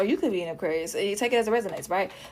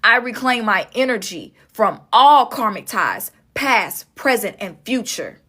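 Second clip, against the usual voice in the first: spoken affirmation. Shown as a demonstration. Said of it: "I really want you to say it out loud".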